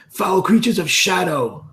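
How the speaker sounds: slow, high-pitched heroic challenge; Elidor's taunting yell. Acted. Elidor tries to intimidate goblins in the canopy, theatrical yell. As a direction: act out a drawn-out battle taunt. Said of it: "Elidor would just yell".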